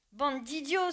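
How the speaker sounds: high, loud furious bray. Acted. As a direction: bray the insult at the crowd. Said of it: "se mit à braire Benjamin".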